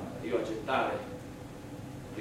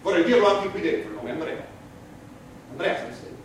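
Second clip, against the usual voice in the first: loud, higher defiant declaration; defiant shout; 7 semitones higher, 7 dB louder than usual. Acted. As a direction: proclaim it to the whole court. Insisting in court on the name.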